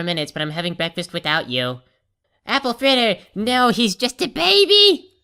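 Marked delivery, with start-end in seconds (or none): 2.5-5.1 hammed-up high wail of grief; slow melodramatic cry; mock anguish. Mock grief over baby.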